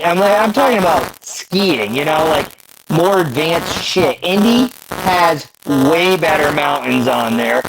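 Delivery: garbled metallic call audio; choppy robotic connection. Real, not acted. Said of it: "if he can hear me in my robot voice".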